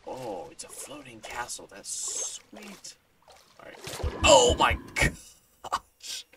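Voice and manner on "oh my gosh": high, loud, very slow amazement; high drawn-out wow; awed gasp. Real, not acted. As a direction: stretch it out in awe. Amazed by floating castle.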